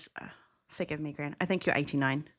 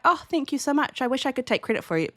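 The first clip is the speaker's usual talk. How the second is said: high, gushing thanks; sweetly grateful; 7 semitones higher than usual. Acted. Answering a compliment on a name, sweetly grateful. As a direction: lay on the gratitude in a high voice.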